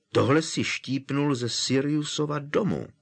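shouting. Acted. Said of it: "Rozkřikl se Harry".

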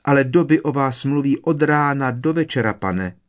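high squeaky house-elf voice; elf squeak. A narrator's reading. Elf voice continues.

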